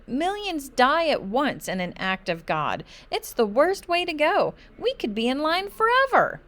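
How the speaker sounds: high, loud, frantic worry; rising panic. A narrator's reading. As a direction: climb into full alarm. Child's doomsday panic.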